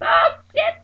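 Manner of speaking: high, loud panicked screams; hollering and screaming. Retold or imitated. Friend hollering over the phone, frantic screams. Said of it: "hollering and screaming".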